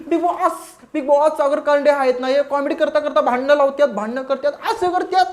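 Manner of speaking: a hammed-up complaint to Bigg Boss; mock shout. Mocking Tanvi shouting to Bigg Boss about Sagar Kande, mock yell. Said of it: "ही तन्वी ताई वरडायला लागली".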